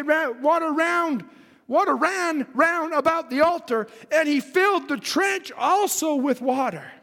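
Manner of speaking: declaimed Bible verse; scripture reading. Acted. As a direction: read scripture out to a congregation. Reads scripture in preaching voice.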